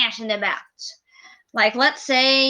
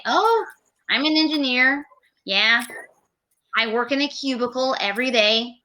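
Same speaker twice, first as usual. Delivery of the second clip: bored engineer; faster than usual. Shown as a demonstration. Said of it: "if you're talking about engineering".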